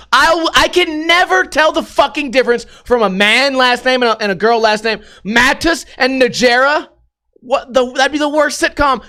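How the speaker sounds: high-pitched, exasperated pleading; exasperated rant. Real, not acted. Reader lost among surnames in an article, exasperated. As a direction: rant in comic disbelief at the confusion.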